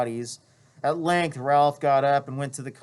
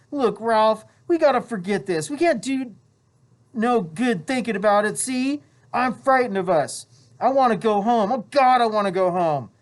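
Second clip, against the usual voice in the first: high, rising panic, loud; scared boy pleads to forget the killing; frightened Piggy; 5 semitones higher, 4 dB louder than usual. Acted. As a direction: beg to go home. Piggy panics, wants home.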